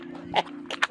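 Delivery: quiet, breathy little laugh; brief real laugh under the breath; soft chuckle. Real, not acted. Reviewer amused by the shiny deck, soft chuckle.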